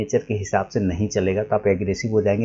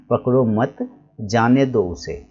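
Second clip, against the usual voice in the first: पकड़ो मत as one unit, a break, slow जाने दो उसे; pause after मत; slower than usual. Shown as a demonstration. Teacher shows one written sentence, pausing after मत. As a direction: stop after मत, then say जाने दो उसे slowly. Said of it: "एक ही चीज़ लिखेगा".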